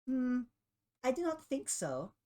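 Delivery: high-pitched, teasing villain voice; taunting refusal. Acted. Game master as Triff blocking Lily's way, taunting.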